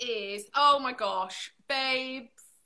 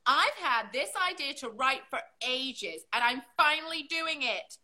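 letter read aloud. Acted. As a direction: lilt up and down, stretching the place names. Reads a listener's postcard aloud.

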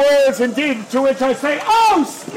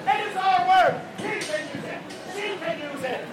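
put-on Scottish accent. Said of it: "I am indeed Scottish".

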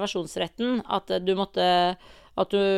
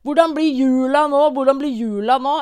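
high, loud whiny mimicry of sour complainers; mock everyone's sulky moaning, pitched up; sur klaging; 5 semitones higher, 7 dB louder than usual. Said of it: "nå sitter alle og er sure". (sur, sutrete etterligning)

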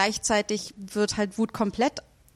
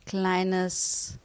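slow mocking taunt; 3 semitones lower, 3 dB quieter, much slower than usual. Professor taunts timid subject.

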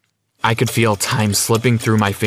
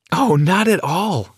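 high, drawn-out polite reassurance; gracious welcome; 8 semitones higher, slower than usual. Acted. Mom welcomes her son's girlfriend, gracious and high-pitched. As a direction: wave the worry away sweetly and slowly.

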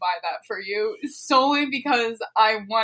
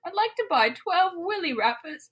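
high-pitched put-on customer request; mock shop customer; 4 semitones higher, 3 dB quieter than usual. Pretend customer ordering at the candy shop, high-voiced.

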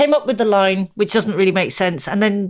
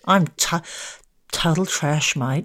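put-on Australian accent; 3 semitones lower, 5 dB quieter than usual. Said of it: "So that was an Australian accent".

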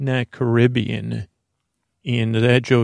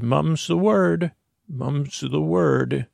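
parrot voice; 4 semitones higher, slower than usual. Retold or imitated. Parrot Pepper voiced in story.

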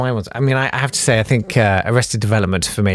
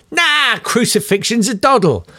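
chirpy high Python voice; Eric Idle impression; 10 semitones higher than usual. Choir member answering a new singer, Eric Idle impression. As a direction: quip it like a cheeky Python. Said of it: "in my best Eric Idle impression".

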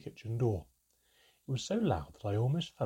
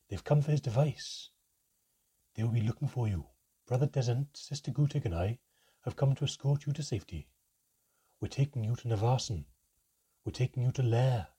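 urgent priest; 2 semitones higher, 4 dB louder than usual. Acted. Priest urgently warning the mother.

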